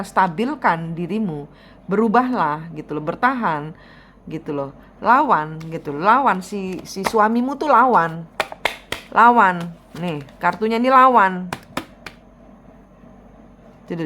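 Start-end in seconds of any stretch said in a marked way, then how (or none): 5.0-11.5 fierce urging to fight back; rising urgent command. Real, not acted. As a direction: push harder each time, ending in a loud rallying call.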